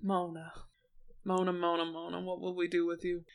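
soft, low, after a sigh; quietly despairing of a friend, voice dropped; resigned chiding. Acted. Disappointed friend to Mona after her bigoted remark, resigned chiding.

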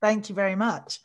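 hoarse, husky voice after a big weekend. Real, not acted. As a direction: speak with a husky, worn voice. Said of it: "You can tell by my husky voice".

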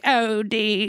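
put-on high, frail British old lady; imitating a ninety-year-old British woman; British grandmother. Shown as a demonstration. Grandmother greets her grandson Dean, elderly British voice. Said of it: "I can do, like, a ninety-year-old".

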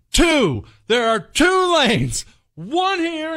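high-pitched mock yell at the driver; dad reenacting yelling at minivan driver; reenacted angry outburst. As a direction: lecture her, exasperated. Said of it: "I am steamed".

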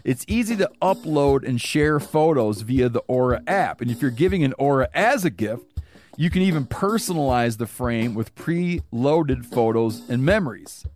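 ad read. Acted. Recorded sponsor read.

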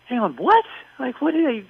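a bewildered hang on, what; confused what. Retold or imitated. Viewer at home, confused by the cut to commercial, baffled. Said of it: "you're just like".

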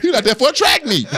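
high laughing delivery. Retold or imitated. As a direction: laugh the line out. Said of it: "He's like".

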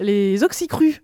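"oxycrus" said instead of Horcruxes, slowly; mispronounced word. Real, not acted. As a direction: stumble on "oxycrus", word garbled. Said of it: "je n'arriverai pas à prononcer ce mot".

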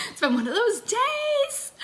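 high, slow, breaking into laughter; laughing through words. Real, not acted. Coach laughing at her own chaotic day, laughing.

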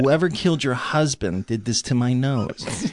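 Jack Nicholson impression. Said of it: "I'm working on the Nicholson".

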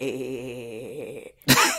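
soft, low eh eh eh; mock nudging eh eh. Old men nudge each other at a newcomer, quiet teasing eh eh. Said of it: "they'll tap each other".

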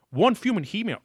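high, loud mocking quote; imitating host. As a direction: quote him in a squeaky mock voice. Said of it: "He says".

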